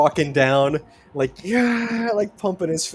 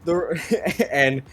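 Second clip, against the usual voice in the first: ring announcer; 4 semitones higher, 5 dB louder than usual. Pretend. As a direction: hype him up like a ring announcer. Announcer introduces fighter stats.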